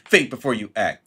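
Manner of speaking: scornful mock advice. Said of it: "Better than".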